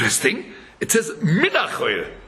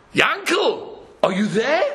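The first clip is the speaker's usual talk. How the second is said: calling out; 4 semitones higher, slower than usual. Acted. Calling through the letterbox.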